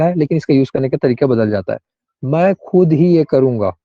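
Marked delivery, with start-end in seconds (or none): 2.2-3.8 slow stress on खुद ही; emphatic ego. Shown as a demonstration. Teacher showing the emphatic sentence, insistent खुद ही. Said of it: "इसमें मतलब थोड़ा-सा ego में बात आ गई".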